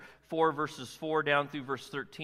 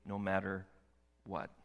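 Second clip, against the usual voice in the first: slow solemn voice of God; 5 semitones lower than usual. Acted. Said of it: "God was very clear".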